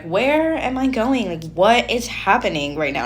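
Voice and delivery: mock bewildered excitement, stretched out; acted excited bewilderment. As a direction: act out being led along, excited and confused. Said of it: "you're excited about it".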